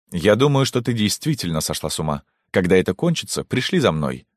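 cold, annoyed dismissal while turning away; irritated anger. Acted. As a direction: brush her off angrily. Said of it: "страх и смущение сменились гневом". (с раздражением)

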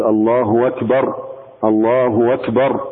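الله أكبر said slowly with an extra waw after الله; added waw. Shown as a demonstration. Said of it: "قل". (الله أكبر ببطء مع زيادة واو بين الكلمتين)

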